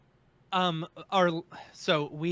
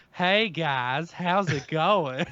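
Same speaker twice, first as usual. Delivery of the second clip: put-on lazy Southern accent greeting; slower than usual. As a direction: drawl it like a Southerner. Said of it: "a Southerner voice".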